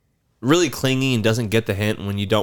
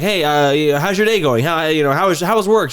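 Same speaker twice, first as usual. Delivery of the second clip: put-on higher, eager kid begging to play; pestering kid voice; 5 semitones higher, 4 dB louder than usual. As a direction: badger them like a clingy child. Imitating pestering neighbor kid.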